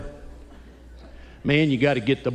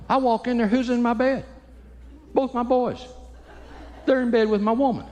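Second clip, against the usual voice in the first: higher, incredulous storytelling; mock indignant surprise; 10 semitones higher than usual. Dad finding his boys in his bed, raised in disbelief. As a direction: act stunned at the sight.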